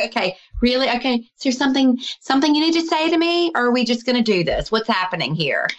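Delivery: half-amused scolding of an unruly spirit; high, quick, teasing interrogation; mock exasperated questioning.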